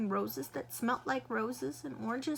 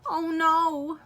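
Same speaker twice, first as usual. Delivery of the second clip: mother's loud, higher cry of dismay; 6 semitones higher, 7 dB louder than usual. Acted. Mother seeing her daughter's hands, loud dismay. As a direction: gasp it out in shock.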